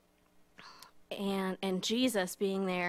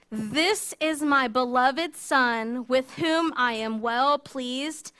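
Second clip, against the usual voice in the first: slow, loud and solemn; booming divine pronouncement, drawn out; voice from the cloud; 3 dB louder, slower than usual. Acted. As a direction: proclaim it slowly like a voice from heaven. Voice from the cloud speaks.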